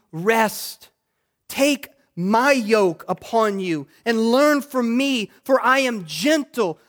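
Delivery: slow, emphatic preacher's recitation; measured, weighty Bible reading; scripture proclamation. Acted. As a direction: proclaim the verse deliberately, phrase by phrase.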